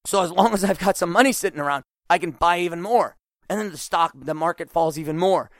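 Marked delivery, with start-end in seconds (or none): 0.0-3.1 imitated excitement. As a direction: gush like a bargain hunter at a sale. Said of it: "No, you go".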